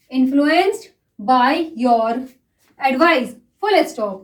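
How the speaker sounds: dictating to a class at writing speed; slow, measured shorthand dictation; slow dictation reading. Acted. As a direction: read each phrase out slowly, with long gaps between them, for shorthand students. Teacher reads a dictation passage.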